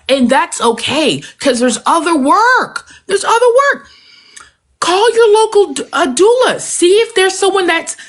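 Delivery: pleading, emotion breaking through; real emotion pushing the voice up; getting emotional. Real, not acted. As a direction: voice rising high with emotion, close to tears. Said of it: "I'm getting emotional".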